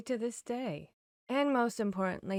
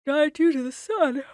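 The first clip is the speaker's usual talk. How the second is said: sudden realization; 6 semitones higher, 11 dB louder than usual. Acted. Sudden realization mid-sentence.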